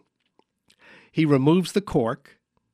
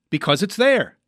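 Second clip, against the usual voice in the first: "Because it's there" higher, in one phrase; dawning realization; 5 semitones higher than usual. Pretend. Host understanding the mime's answer, pitched-up realization.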